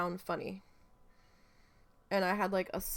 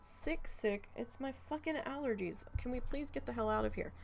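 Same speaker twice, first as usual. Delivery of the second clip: exasperated; 5 semitones higher, 4 dB quieter than usual. Retold or imitated. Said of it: "I'm like".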